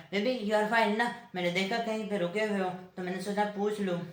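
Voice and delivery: put-on cloying girlfriend. Girlfriend phoning boyfriend on the road, cloying concern. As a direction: mimic a clingy girlfriend checking in.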